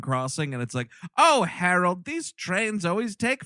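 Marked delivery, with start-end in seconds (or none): 1.2-3.4 put-on a touch of a fussy old lady waiting in a car; old wife voice. Old wife in a car at the crossing, mildly mock fussy. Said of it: "like, an old couple in a car".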